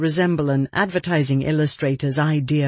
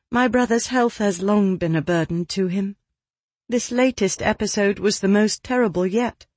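put-on higher-pitched young lady; 5 semitones higher than usual. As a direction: voice Miss Holmes a touch higher. Narrator voices Miss Holmes.

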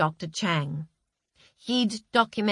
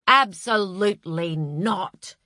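pompous schoolteacher; slower than usual. Acted. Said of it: "in his pompous schoolteacher voice".

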